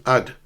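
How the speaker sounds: "I'd" as one short syllable; linked contraction. Shown as a demonstration. Teacher showing the short form, "I'd" in one syllable. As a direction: squeeze "I would" into "I'd".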